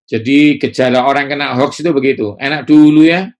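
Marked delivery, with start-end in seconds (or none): 2.4-3.3 loud, high wistful sigh; mock the nostalgic Israelites; imitating a wistful 'enak dulu ya'; longing for the past. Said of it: "Nah, itu".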